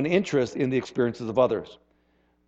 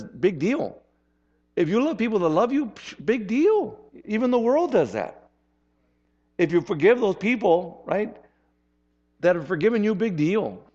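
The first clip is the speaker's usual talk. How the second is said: dismissive Jesus quote; 6 semitones higher than usual. Acted. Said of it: "he goes on and says".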